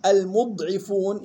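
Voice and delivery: slow المضعفون said "al-mud'ifuun"; "mu", held dad, then "'i" in المضعفون; damma mim, kasra ayn. Shown as a demonstration. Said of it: "يلاحظ ضم الميم وكسر العين". (المضعفون بضم الميم وكسر العين)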